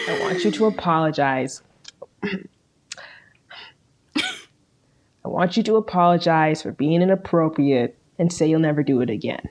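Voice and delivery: stern, measured dad lecture; a lightly voiced disappointed TV father; Bert Hummel impression. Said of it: "I can do a good Mike O'Malley impression as Bert Hummel".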